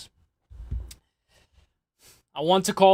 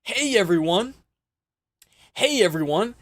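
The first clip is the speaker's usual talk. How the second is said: mock cheery greeting; 3 semitones higher than usual. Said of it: "Look at how happy he is".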